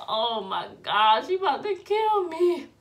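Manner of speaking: panicked. Retold or imitated. Retold panic before angry mother.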